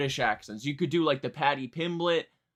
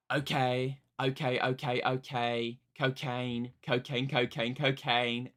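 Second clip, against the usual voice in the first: understated singer impression, almost your own voice; pop singer impression; slower than usual. Shown as a demonstration. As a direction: play the pop singer, barely changing your own voice. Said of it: "my pop singer impression for you".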